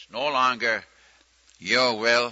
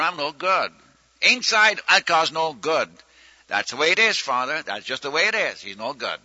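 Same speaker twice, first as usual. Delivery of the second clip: higher, louder, earnest confession to the Father; plain-spoken prayer; 6 semitones higher, 3 dB louder than usual. Retold or imitated. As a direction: pour it out simply, like a child. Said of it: "this is how he talked".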